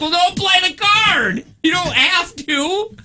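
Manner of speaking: high, slow, coaxing mock voice; mock gentle. Telling Angie not to play the card, mock coaxing. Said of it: "I'm like".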